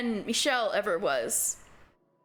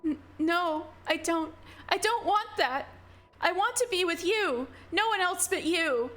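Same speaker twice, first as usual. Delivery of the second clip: Giselle, refusing; 5 semitones higher than usual. Acted.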